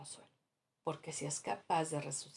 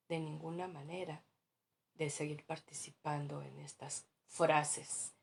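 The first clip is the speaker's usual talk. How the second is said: oración suave y lenta de arrepentimiento; 3 dB quieter than usual. Acted. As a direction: reza despacio, en voz baja, con contrición. (oración pausada y humilde)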